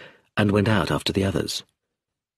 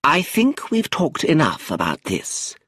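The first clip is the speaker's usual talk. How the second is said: put-on slow, commanding old lady's voice; an old aunt silencing the family, slow and firm; 7 semitones higher, slower than usual. A narrator's reading. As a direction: end the argument with authority. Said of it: "with such power in her voice".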